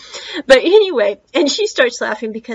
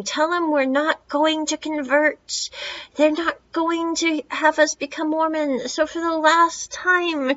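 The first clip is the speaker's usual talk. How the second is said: mild mock yell from the porch, higher and slowed; 6 semitones higher than usual. Dad calling out the door at the Mormons, a mild mock yell. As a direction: ham up a fed-up dad shouting. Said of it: "the dad just starts yelling this out the door".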